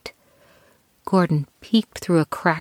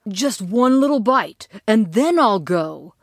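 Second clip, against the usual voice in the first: hollow reassurance; 3 semitones higher than usual. Acted. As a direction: talk yourself into it. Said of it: "Gordon tried to convince himself".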